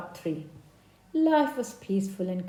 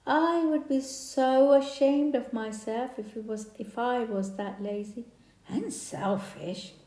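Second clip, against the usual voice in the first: indignant bee; 4 semitones higher, 4 dB louder than usual. Acted. Bee gossips, ashamed of lazy one.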